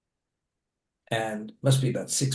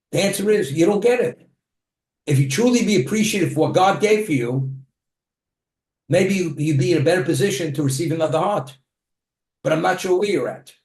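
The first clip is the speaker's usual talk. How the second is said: louder, higher reproach; firm rebuke; 4 semitones higher, 4 dB louder than usual. Retold or imitated. Rabbi scolding the man for his ingratitude, loud and firm. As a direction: press the point home with raised voice.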